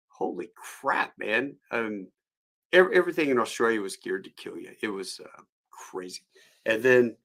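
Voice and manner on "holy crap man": hushed astonishment. Retold or imitated. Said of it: "And I'm thinking".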